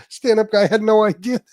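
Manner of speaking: real helpless laughter through the words; laughing hard. Real, not acted. Host retelling the live-call prank, cracking up laughing. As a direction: break up high-pitched as you finish.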